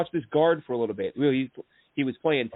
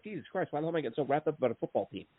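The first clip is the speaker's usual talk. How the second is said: quick, much softer muttered aside; self-mocking exasperation; 7 dB quieter, faster than usual. Fan mocking his own obsession, fast and hushed. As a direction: laugh at yourself under your breath. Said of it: "I'm like".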